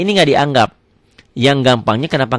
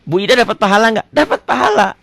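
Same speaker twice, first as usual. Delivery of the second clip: higher, lightly voiced questioner; mock question and answer; 9 semitones higher than usual. Teacher acts out asking whether Bu Ida gets merit. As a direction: ask it brightly, answer cheerfully. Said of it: "Sekarang tanya".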